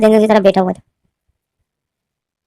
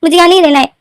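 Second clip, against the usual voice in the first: tearful plea; 5 semitones higher than usual. A narrator's reading. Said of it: "रोते हुए बोलता है".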